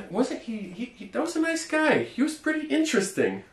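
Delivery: example sentence. Shown as a demonstration. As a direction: play a gossiping friend.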